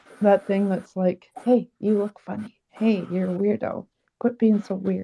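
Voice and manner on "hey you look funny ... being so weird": nagging inner critic voice. Acting out the voice in one's own head: inner critic voice. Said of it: "I got that voice".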